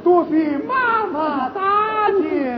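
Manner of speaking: slow, weeping thanks to mother; tearful thanks. Acted. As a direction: thank her through tears. (含泪道谢)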